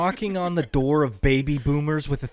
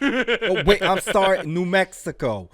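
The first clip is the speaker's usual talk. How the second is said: fake Italian accent. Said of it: "fake Italian accent".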